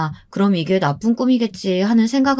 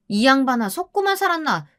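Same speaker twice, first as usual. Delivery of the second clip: scornful retort; 6 semitones higher than usual. Acted. Staff retorting to mother-in-law.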